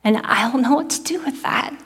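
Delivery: understated heartbroken prayer; crying out to God. Retold or imitated. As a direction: lightly relive the desperate plea. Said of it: "And I cry out to God".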